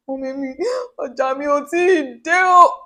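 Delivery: breaking into tears, voice high and tearful; Yoruba: ẹkún sí màmá; crying to mom. Retold or imitated. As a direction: sob it out to your mother as it comes back to you. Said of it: "I cried".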